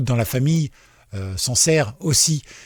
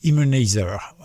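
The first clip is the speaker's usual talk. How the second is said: product name in an English accent, drawn out slowly; French speaker trying an English accent; slower than usual. Shown as a demonstration. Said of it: "Avec mon accent anglais".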